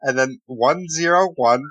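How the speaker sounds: slow, careful letter by letter; spelled out slowly. Shown as a demonstration. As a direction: spell each character out. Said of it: "Just to say it one time".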